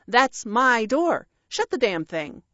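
cross parrot. Acted. Parrot defending his own door, cross scolding. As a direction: tell off an intruder.

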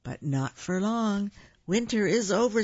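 high, lilting announcement; bluebird song. A narrator's reading. A bluebird announces winter's end, high lilting call. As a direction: pitch it up like a bird's call. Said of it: "says a bluebird song".

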